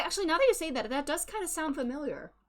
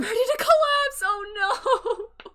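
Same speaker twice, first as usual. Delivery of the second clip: laughing; 11 semitones higher, 8 dB louder, slower than usual. Real, not acted. Joke breaks into laughter.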